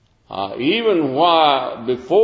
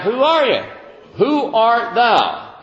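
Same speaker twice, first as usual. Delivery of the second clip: questioning priests; 9 semitones higher, slower than usual. Retold or imitated. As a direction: press him hard, who are you. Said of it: "King James".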